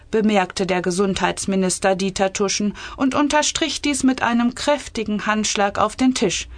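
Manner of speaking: measured, clearly articulated story reading; story narration. A narrator's reading. Author reading her cabinet satire, measured story narration. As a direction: read the tale aloud with composure.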